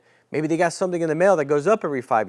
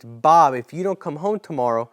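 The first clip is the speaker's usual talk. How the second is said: sincere agent question; 3 dB louder than usual. Shown as a demonstration.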